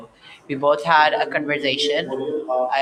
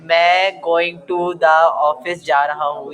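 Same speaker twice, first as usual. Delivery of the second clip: desi broken English with Urdu mixed in; Urdu-accented broken English, run together; 3 dB louder, faster than usual. Shown as a demonstration. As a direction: demonstrate desi-style broken English, fairly quickly. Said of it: "that was supposed to be my broken".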